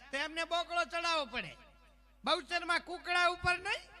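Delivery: high-pitched insistent questioning; indignant believer. Retold or imitated. Believer quizzes artist about goddess's mount, high indignant voice. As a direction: pitch it high, as if it were obvious.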